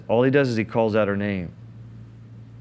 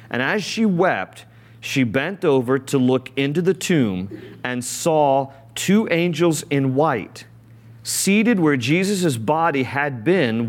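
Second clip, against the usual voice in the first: slow, measured Bible reading; a preacher reading scripture to the congregation, slow and measured; 3 semitones higher than usual. Acted. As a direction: read the verse out slowly and solemnly. Reads scripture aloud.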